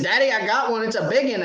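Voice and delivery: put-on high, eager child voice; excited little kid. Dad mimicking his son shouting about a big fish, high-pitched. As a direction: play the boy thrilled with his fish. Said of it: "He said".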